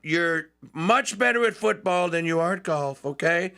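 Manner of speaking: a light Trump ribbing; imitating Trump. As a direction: Trump teasing Saquon about golf, lightly imitated. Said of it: "And he goes".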